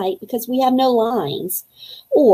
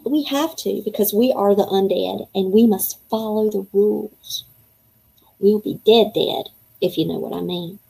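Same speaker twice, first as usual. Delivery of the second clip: put-on reading a kid's diary aloud to young listeners; storybook read-aloud voice; story narration. A narrator's reading. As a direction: read it as the boy writing his diary. Reads chapter as boy narrator.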